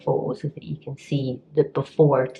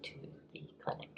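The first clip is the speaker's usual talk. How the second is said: whisper; 22 dB quieter, much faster than usual. Real, not acted. Trails into a whisper.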